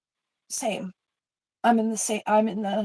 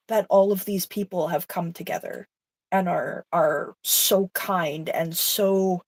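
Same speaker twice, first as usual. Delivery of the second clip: emotional; slower than usual. Real, not acted. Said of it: "made me get emotional".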